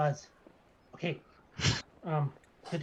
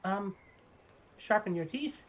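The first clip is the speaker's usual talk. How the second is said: higher, eager creepy barber offer; barber gnome; 6 semitones higher than usual. Acted. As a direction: offer it sweetly, a little creepy. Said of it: "he goes".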